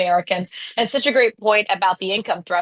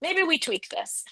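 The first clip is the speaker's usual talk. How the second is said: small, high, soft and slow; mock timid suggestion; 9 semitones higher, 6 dB quieter, slower than usual. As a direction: sheepishly float the idea in a tiny imitated voice. Mimicking party's timid change of mind.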